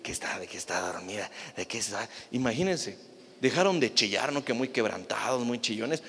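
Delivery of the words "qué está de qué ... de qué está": low, scoffing disbelief with a laugh; mocking crowd. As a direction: sneer at him, half laughing. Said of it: "Y la gente, laughs". (burla incrédula, grave y entre risas)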